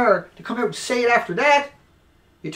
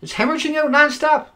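angry yelling; 6 semitones higher, 8 dB louder than usual. Real, not acted. Raging at media idiots over the melted building, furious shouting. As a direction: bellow each point in outrage. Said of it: "I'm not yelling at you".

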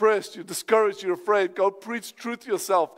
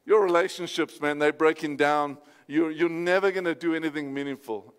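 lightly voiced discouraging thought, lower; accusing inner voice; 4 semitones lower than usual. Preacher voicing the voice that says you're a failure, lower. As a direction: drop lower for the voice of self-doubt. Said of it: "you hear this voice says".

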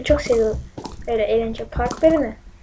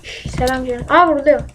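mock sweet coo; 3 semitones lower, 6 dB quieter than usual. Cooing to an enemy player.

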